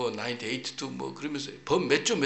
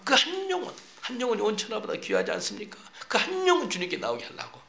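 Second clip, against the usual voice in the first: preaching climax; 9 semitones higher than usual. Real, not acted. Sermon climax, raised voice.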